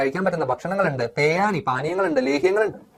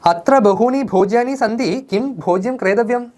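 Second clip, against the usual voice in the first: higher, slow wondering question; puzzled nephew; 6 semitones higher, slower than usual. Acted. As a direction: ask like a boy dazzled by food. Nephew asking which food. (ഉയർന്ന സ്വരത്തിൽ പതുക്കെ ചോദ്യം)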